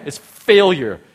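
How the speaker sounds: harsh, loud verdict. Real, not acted. Preacher grading the odds for the congregation, harsh. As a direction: say it bluntly, with real force. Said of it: "I know I said it really harshly".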